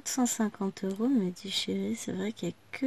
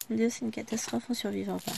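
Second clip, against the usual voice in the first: mock panic; faster than usual. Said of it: "Non, je rigole".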